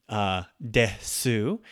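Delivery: desu said slowly with the final u dropped, like "des"; devoiced desu. Shown as a demonstration. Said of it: "is not pronounced".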